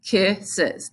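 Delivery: "kisses" in two spaced beats; measured, split "kisses"; counting syllables. Shown as a demonstration. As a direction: count out both parts of "kisses". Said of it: "I counted the syllables".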